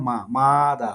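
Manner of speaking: "মাদা" broken up as মা, then দা; split into syllables. Shown as a demonstration. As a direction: say "মাদা" in two separate beats. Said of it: "মাদা মানে দুইভাবে উচ্চারণ".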